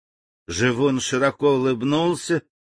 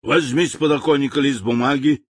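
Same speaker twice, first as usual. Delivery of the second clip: curt order; 3 semitones higher than usual. Acted. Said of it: "отрывисто бросил живуну генерал".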